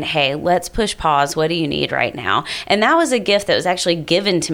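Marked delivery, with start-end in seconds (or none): 0.0-2.4 calm, gentle. Shown as a demonstration. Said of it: "I would highly recommend saying".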